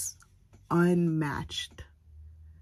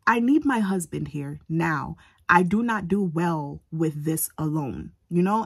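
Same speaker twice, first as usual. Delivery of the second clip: urgent demand; 4 dB louder than usual. Retold or imitated. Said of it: "I said".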